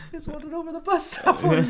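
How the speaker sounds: high, loud tearful whine; hammed-up sobbing voice; mock crying. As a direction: wail it like a wronged cartoon victim. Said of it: "walks away crying".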